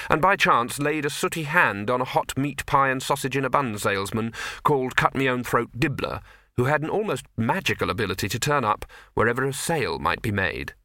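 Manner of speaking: ordinary delivery, nothing marked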